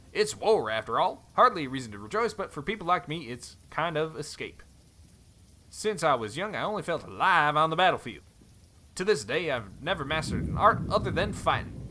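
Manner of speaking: put-on light cowboy accent, friendly; easygoing Western cowboy accent. Helm reminds Thorn they travelled together, cowboy accent. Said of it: "cowboy accent".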